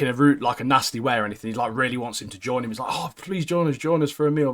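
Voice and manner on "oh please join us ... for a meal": mock pleading, pitched up; eager pleading. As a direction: lightly beg them to come along. Eager character begging someone to join.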